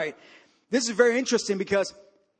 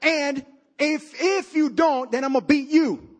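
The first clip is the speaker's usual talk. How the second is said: higher, emphatic dad laying down an order; imitated tough dad; 5 semitones higher, 4 dB louder than usual. Dad sending his crying son back to fight, imitated tough father. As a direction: play the father issuing an ultimatum. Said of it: "He said".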